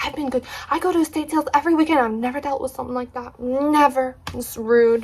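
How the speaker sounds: high, fast indignant complaint; mock heated rant; hammed-up huffy complaint. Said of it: "She was getting really heated".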